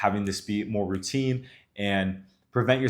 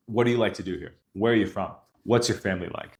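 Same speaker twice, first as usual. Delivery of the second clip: each question ending in a firm downward fall, "What", "are", "What's" leading; commanding assumptive questions. Shown as a demonstration. Coach practicing questions in an assumptive tone, falling. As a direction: ask it like a statement, dropping at the end. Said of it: "I'm almost commanding the question".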